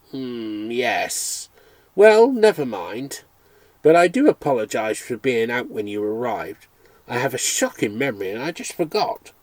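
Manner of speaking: lightly voiced English gentleman, offhand; a touch of breezy English apology; most English voice. Vet apologising to the visitor for forgetting, lightly English. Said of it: "It was the most English voice".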